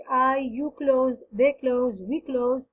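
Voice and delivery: very slow, each pronoun spaced out; slow drill. Shown as a demonstration. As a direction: spell out the forms slowly for learners. Teacher drilling pronoun forms. (نطق بطيء جدا للتدريب)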